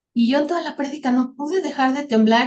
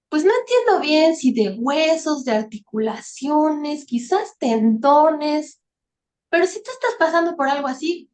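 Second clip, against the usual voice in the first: retold pastor's appeal; 4 semitones higher than usual. Pastor inviting the suffering people in church forward, searching appeal. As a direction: lightly imitate a pastor feeling out his words.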